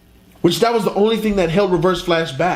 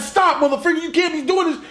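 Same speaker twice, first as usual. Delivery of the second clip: much higher mock-whiny protest; hammed-up squeaky scolding; high cartoon voice; 10 semitones higher than usual. Flash scolding his past self in a squeaky voice.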